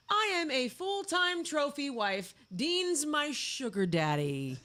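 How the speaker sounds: slow, playfully snarky declaration; snarky quote. Acted. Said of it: "Being snarky herself".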